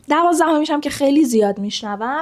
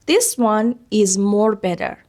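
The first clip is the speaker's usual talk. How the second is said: "more better" drawn out slowly for students to judge; slow, deliberate test sentence ending on "more better"; slow wrong example; much slower than usual. Shown as a demonstration. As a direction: lay out "This one is more better" word by word. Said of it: "این درسته به نظرتون؟".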